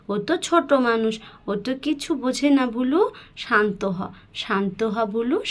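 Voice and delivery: gently calm a growling dog down; soothing the dog. Acted. Sister calming the angry dog.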